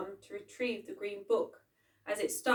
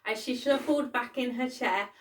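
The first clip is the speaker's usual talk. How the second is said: usual speaking voice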